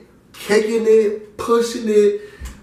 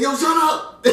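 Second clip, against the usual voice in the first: laughing shut up; 10 semitones higher than usual. Retold or imitated. Friend snapping back at lady.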